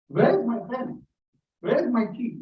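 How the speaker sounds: a hint of a flustered Indian looking for things; imitating someone searching. Speaker imitating Indians who lose things, mildly fretful. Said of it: "notice we go".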